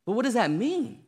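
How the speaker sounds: put-on a frightened boy begging for an answer; scared kid. Boy pleads with grandmother, high and panicky. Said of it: "boy keeps pleading with grandmother".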